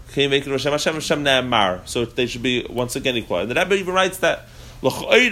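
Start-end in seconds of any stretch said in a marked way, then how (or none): 1.2-1.9 ne'amar ending in an open "-ar"; patach vowel. Shown as a demonstration. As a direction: say ne'amar as "ne-eMAR". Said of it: "it had both of them with a patach".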